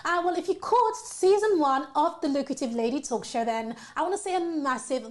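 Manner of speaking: upbeat presenter welcome with lively, swooping pitch; show host intro. Acted. Host welcoming viewers to season two and introducing her guest, upbeat presenter voice.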